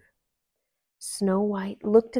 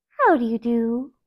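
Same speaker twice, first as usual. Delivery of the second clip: a lightly voiced sweet princess; polite greeting; 3 semitones higher, 7 dB louder than usual. A narrator's reading. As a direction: greet them prettily. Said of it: "smiled prettily".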